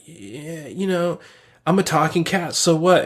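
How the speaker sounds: imitating a laid-back talking cat; casual, offhand cat voice, lightly done; really chill. Talking cat brushing off Jerry's surprise, really chill. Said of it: "like, really chill".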